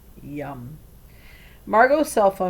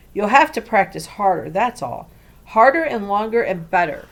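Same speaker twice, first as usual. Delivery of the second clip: loud, pushy lecturing; bossy; 3 semitones higher, 7 dB louder than usual. A narrator's reading. Hawthorne on the phone, bossy and loud. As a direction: boss her around about practicing. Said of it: "reminded Nori of how bossy he could be".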